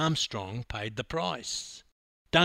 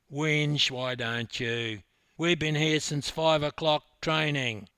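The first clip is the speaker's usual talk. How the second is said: retort; 3 semitones higher, 4 dB louder than usual. Acted. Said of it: "retorted Jono".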